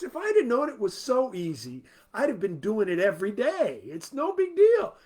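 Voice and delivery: high, lilting voice of a pleased wife; wife airily making light of it; breezy wife. Acted. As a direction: toss it off, drawing out the last words high. Wife breezily boasting in joke.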